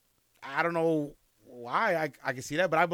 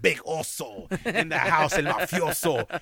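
slow, drawn-out cholo swagger; cholo persona; slower than usual. Acted. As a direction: play it as a full cholo, laughing. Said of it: "get into full cholo mode".

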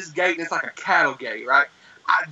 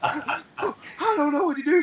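high, slow mock-tearful wail; freaking out; 9 semitones higher, 3 dB quieter, slower than usual. Panicked caller to nine one one operator, mock-tearful wail. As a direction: whimper it high with a laugh underneath. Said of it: "I'm freaking out".

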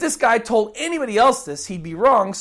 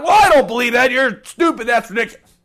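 louder, snappy rude comeback; mock rude retort; 6 dB louder, faster than usual. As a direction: blurt it like a rude insult, hammed-up. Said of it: "blurt out the first rude thing".

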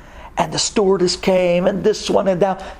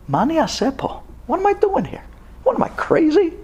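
alarmed disbelief; 11 semitones higher than usual. Retold or imitated. Acted panicked thought to himself.

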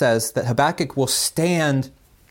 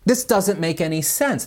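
a touch higher, quick, impassioned prophet pleading with God; mock-exasperated complaint, mostly fast and a bit higher; Josh Revel impression; 5 semitones higher than usual. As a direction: plead urgently, a lightly voiced impression of a preacher. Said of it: "That was my Josh Revel, uh, uh, impersonation".

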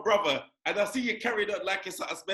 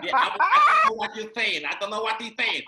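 lisping Tyson; 6 dB louder than usual. Retold or imitated. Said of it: "then Tyson lisping".

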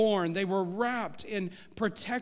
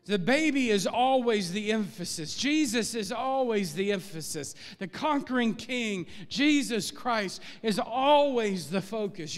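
rising preacher's insistence, voice lifting on each claim; preaching emphasis. Acted. Pastor stressing to his congregation that Jesus is the focus, emphatic. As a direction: press the point home like a pastor.

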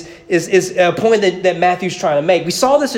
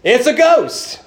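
mock screech; 6 semitones higher, slower than usual. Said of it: "they screeched".

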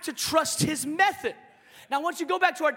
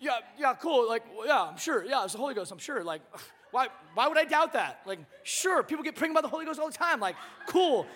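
sarcastic Joe. Retold or imitated. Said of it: "Joe had to be like".

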